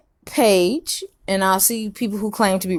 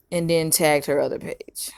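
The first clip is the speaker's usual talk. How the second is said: unvoiced, secretive whisper; 4 semitones lower, 5 dB quieter than usual. Real, not acted. Conspiratorial aside, unvoiced.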